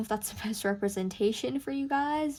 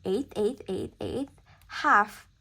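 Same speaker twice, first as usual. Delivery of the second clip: evenly spaced eighths, louder HALF; spoken rhythm pattern; 5 dB louder, slower than usual. Shown as a demonstration. Teacher reading a rhythm aloud to students, spoken rhythm pattern. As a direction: say each "eighth" evenly, land harder on "half". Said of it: "How many times does the rhythm".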